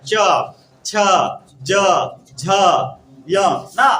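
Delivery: each letter च, छ, ज, झ said alone with a pause; slow separate demo of च छ ज झ; sounding out letters. Shown as a demonstration. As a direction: sound out च छ ज झ one by one for the class. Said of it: "वहीं जाता है".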